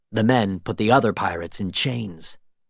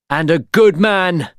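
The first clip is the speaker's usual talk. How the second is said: loud, higher retort; defiant shout; 7 semitones higher, 6 dB louder than usual. A narrator's reading. Will answering the governor, loud shout. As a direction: throw it back at him. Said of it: "Will shouted".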